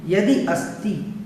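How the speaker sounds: यदि अस्ति as two separate words, slowly; word split. Shown as a demonstration. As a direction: pause between यदि and अस्ति. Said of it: "अलग-अलग करेंगे तो हो जाएगा यदि अस्ति".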